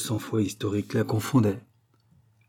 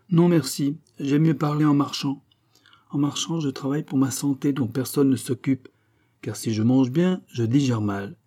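aggrieved king; 5 semitones higher, 4 dB louder than usual. Acted. King complains to queen.

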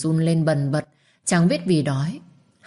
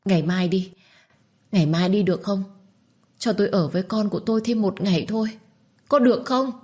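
a hint of a begging young woman, a bit higher; lightly voiced pleading mother; 4 semitones higher, faster than usual. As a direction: ask for one more day, rising at the end. Minh bargains for one more day.

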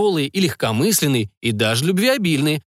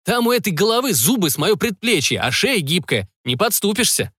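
indignant; 6 semitones higher than usual. A narrator's reading. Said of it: "возмутился Рай".

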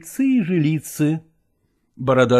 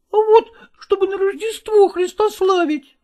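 put-on boy =129. Boy explains.

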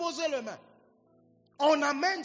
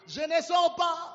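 slow defiant demon voice, louder; stubborn possessed man refusing, slow; 5 semitones higher, 5 dB louder, slower than usual. Acted. Demon answering the intercessors. (voix de possédé qui refuse)

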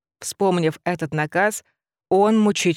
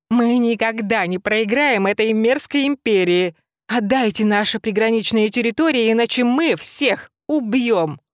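ranting rabbit; 4 semitones higher than usual. Acted. Rabbit ranting at the hated empire. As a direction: bellow it like a war cry.

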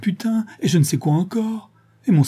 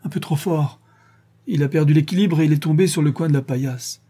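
higher, tearful outburst; crying; 5 semitones higher than usual. Acted. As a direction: sob it out, voice pitched up. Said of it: "en larmes, avec de gros spasmes".

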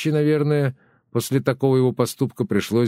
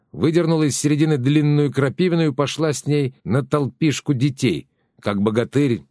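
ordinary delivery, nothing marked

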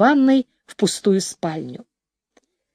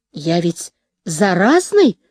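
sighing; 5 semitones lower, slower than usual. Acted. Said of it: "со вздохом предупредил он".

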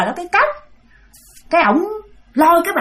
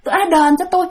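whiny ghost woman; 6 semitones higher, faster than usual. Retold or imitated. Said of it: "Mà bả nói vậy đó".

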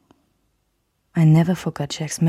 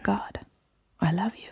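soft low voice; 4 semitones higher, 7 dB quieter than usual. Acted. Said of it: "ließ mich Jacks leise, doch feste Stimme".

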